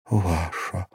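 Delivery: soft, understated murmur; barely audible whisper. A narrator's reading. Girl yielding to the man who holds her, barely audible. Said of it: "прошептала она едва слышно".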